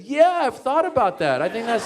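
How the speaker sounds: high, loud, laughing fake agreement; forced enthusiasm. Comic faking delight at Mitzi's outfit idea, laughing. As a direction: gush along while laughing nervously. Forced cheerful answer to boss.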